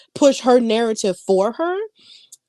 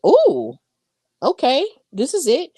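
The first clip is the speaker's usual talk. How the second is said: a squealing ooh, much higher, then okay this is it; mock thrill at the coming fight; excited ooh; 7 semitones higher than usual. Hosts own excited reaction retold.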